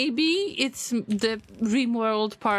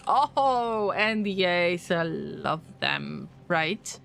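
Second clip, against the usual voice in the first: sarcastic; 4 semitones lower, slower than usual. Acted. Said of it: "I'm being sarcastic".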